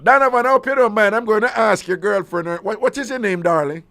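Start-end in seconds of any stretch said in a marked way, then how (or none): none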